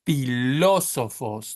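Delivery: "Filósofos" with the LÓ stretched and punched; stress on second syllable. Shown as a demonstration. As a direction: slowly model "Filósofos", leaning hard on the first O. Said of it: "The stress is on this O".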